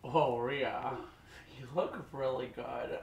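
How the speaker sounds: talking around a snack; cheeto held in lips. Real, not acted. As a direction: lips clamped on food. Seen 0: Cheeto held between lips from start until about 3.5 s.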